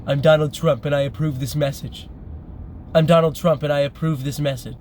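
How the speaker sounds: lightly voiced Trump ringtone line; deadpan recorded-message read, repeated; a hint of a campaign ad voice; imitating a ringtone. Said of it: "This guy's ringtone over and over is".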